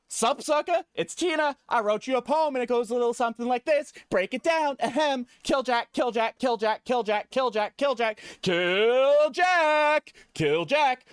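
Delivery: high, cocky little brat reading her poem; Tiny Tina voice. Acted. Streamer voicing Tiny Tina's poem, high and bratty. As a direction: sneer it out like a gleeful kid villain. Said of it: "A poem by Tiny Tina".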